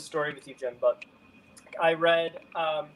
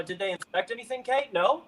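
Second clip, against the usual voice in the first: quoting the lady; 5 semitones higher, faster than usual. Retold or imitated. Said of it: "some lady goes".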